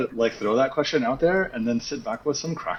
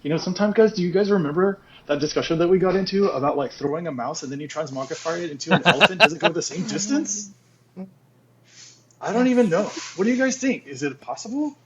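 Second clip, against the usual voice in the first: higher, rushed excited rambling; excited Gen Z chatter; 4 semitones higher than usual. Shown as a demonstration. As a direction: babble on like a hyped teen. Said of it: "gets really excited, then he starts talking really fast".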